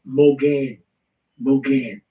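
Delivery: Mogain said as "moh-GAYN", long second syllable; demonstrated pronunciation. Shown as a demonstration. Teller showing listeners how the Hebrew word is pronounced, Mogain as "moh-GAYN". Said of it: "it's pronounced".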